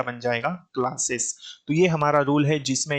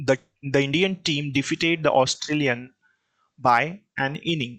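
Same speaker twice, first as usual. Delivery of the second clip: reading the test sentence slowly, word by word; teacher reading the wrong sentence aloud slowly; much slower than usual. Shown as a demonstration. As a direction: dictate it slowly, word by word, for the class. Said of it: "यहाँ पर देखें".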